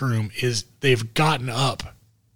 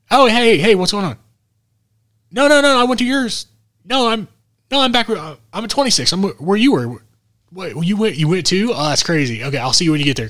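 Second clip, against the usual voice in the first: much higher, louder fake phone voice; prank caller voice; 8 semitones higher, 4 dB louder than usual. The speaker prank-calling Disco from the airport, high put-on voice. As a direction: play it up high to trick him. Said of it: "I wanna prank him".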